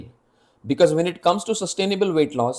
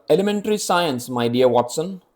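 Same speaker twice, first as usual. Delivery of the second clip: put-on Sherlock Holmes British accent. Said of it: "That was my British accent".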